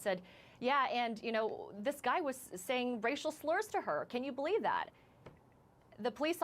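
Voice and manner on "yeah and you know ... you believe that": higher-pitched retold outrage; upset producer. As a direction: imitate an upset colleague appealing in disbelief. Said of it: "who was upset".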